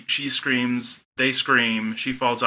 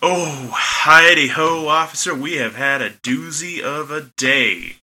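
put-on hillbilly accent; 5 semitones higher, 6 dB louder than usual. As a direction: hillbilly drawl building from normal. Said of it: "gradually started in your normal accent and then turned into a hillbilly accent".

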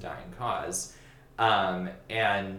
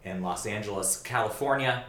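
radio awards host. Pretend. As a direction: announce it like a 1940 radio host. Mock live broadcast opening.

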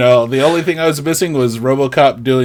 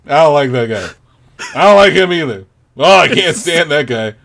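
grumbling viewer; 3 semitones higher, 3 dB louder than usual. Acted. Podcaster mimicking viewers who like no one, mildly exasperated grumble. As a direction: play a hard-to-please movie watcher. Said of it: "the whole time they're watching it".

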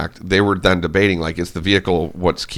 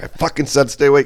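pitched-up mock exasperation; annoyed friend; 6 semitones higher than usual. Friend hitting him again, an irritated high retort. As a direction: play the buddy fed up at having to repeat himself. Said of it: "he's like".

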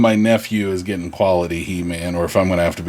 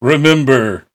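louder, earnest mock public-safety message; sign-off advice; 3 semitones higher, 3 dB louder than usual. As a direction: play a TV hero delivering the episode's moral, with pauses. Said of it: "he's just like".

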